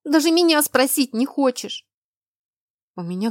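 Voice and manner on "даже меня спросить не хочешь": high, loud wounded complaint; tearful protest. A narrator's reading. Girl complains he never asked her, tearfully. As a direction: protest as if close to tears. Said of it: "всхлипнула она".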